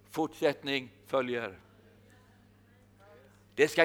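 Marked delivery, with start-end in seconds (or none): 0.1-1.6 Fortsättning följer repeated slowly and softer, falling at the end. Shown as a demonstration. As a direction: let Fortsättning följer sink in quietly. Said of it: "jag har ett ord till dig". (tyst och långsamt: Fortsättning följer)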